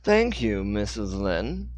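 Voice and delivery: slow, precise Dixon voice; clearly enunciated. Acted. Dixon thanks Hannah, enunciating clearly in his own voice. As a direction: spell out every syllable. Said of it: "enunciated clearly".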